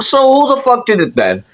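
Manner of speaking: high-pitched mock interrogation; exasperated demand. Mom questioning her kid about the TV, exasperated. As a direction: imitate a mother pressing for an answer.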